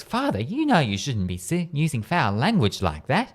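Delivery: shocked, reproachful telling-off with swooping pitch; flabbergasted scolding. Acted. Nun reproaching the priest for swearing, flabbergasted scolding. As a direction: scold him, aghast. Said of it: "the nun looks flabbergasted and says".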